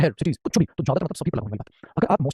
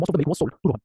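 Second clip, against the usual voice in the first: slowed-down teaching read; slow model sentence; much slower than usual. Shown as a demonstration. Teacher slowly models the English sentence. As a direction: lay out each word slowly. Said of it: "suppose sir, हमने बोला".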